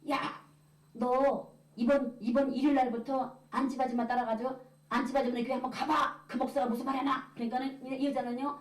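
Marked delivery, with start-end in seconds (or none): 0.1-7.3 mock scolding, rising in pitch; cursing husband. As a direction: boss the wife around as her husband. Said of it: "쌍욕이죠".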